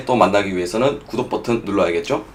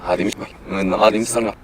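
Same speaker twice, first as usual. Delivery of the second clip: backwards speech. Shown as a demonstration. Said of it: "이걸 한번 돌려볼 거고요".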